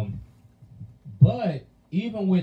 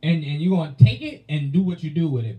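mock cussing out; 5 dB louder, faster than usual. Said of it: "now you ready to just cuss somebody out".

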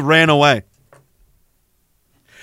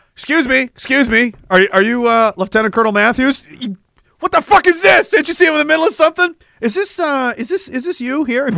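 higher, pushy reporter voice; mock ambush interviewer; 7 semitones higher than usual. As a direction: chase him down with questions, a touch hammed-up. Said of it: "The Messiah says".

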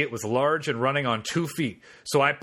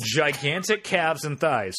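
slow, with "Gigantic calves and thighs" drawn out and stressed; emphatic repeat; slower than usual. Real, not acted. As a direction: lean into "calves" with slow relish. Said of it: "it's my favorite part".

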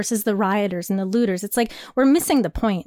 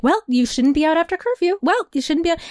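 higher, prim finger-wagging tone; mock scolding; 6 semitones higher than usual. Mocking critics who scold curfew breakers, prim and higher. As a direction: parody the scolds, prim and preachy. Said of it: "everyone loved to, like, be like".

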